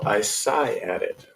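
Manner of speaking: "sigh" drawn out with weight; stress on sigh. Acted. Host reading the comment, heavy stress on "sigh". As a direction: lean slowly on the word "sigh". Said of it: "emphasis on the sigh".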